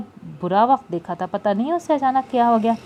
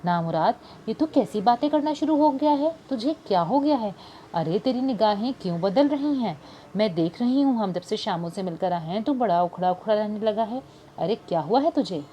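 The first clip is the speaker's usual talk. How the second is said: mildly irritated scolding, rising on the question; a hint of exasperated scolding; lightly voiced annoyed older woman; 3 semitones higher than usual. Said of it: "Nargis ने खफकी से कहा".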